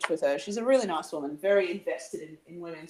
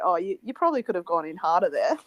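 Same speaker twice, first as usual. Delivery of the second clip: laughing mock commentary. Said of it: "commentate each other and be like".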